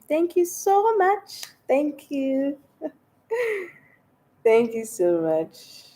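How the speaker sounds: high, slow laughing thank you; giggly thanks. Real, not acted. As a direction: thank them through giggles.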